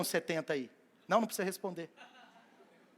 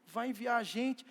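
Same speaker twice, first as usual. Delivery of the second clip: softer, slow sulky mumble; grumbling murmur; 6 dB quieter than usual. Retold or imitated. Doubting disciples murmuring about Jesus, quiet grumble. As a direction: grumble under your breath. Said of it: "começou meia dúzia a murmurar".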